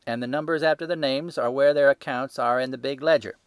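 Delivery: loud, high-pitched market salesman; a stall keeper showing off his ledger, loud and sure; gruff salesman. Acted. Salesman voiced in story.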